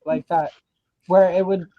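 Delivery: usual speaking voice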